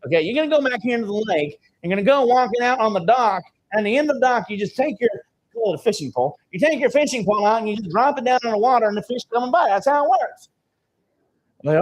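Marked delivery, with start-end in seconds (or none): 0.0-5.1 higher, twangy country storekeeper voice; a hint of a hillbilly clerk; hillbilly drawl. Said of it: "hillbilly as hillbilly gets". 6.5-10.5 higher, quick twangy country storekeeper voice; a hint of a hillbilly clerk; hillbilly drawl. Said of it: "hillbilly as hillbilly gets".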